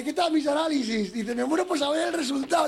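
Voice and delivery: paciente más agudo, casi gritando. Retold or imitated. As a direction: imita al paciente otra vez. Repite el paciente. (paciente del chiste, más agudo)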